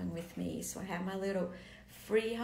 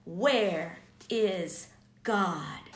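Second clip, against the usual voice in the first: slow, louder, drawn-out "Where is God?"; desperate homeless man; 2 semitones lower, 9 dB louder, much slower than usual. Retold or imitated. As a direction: stretch each word out like a lost, pleading soul. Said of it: "he looked at me and he said".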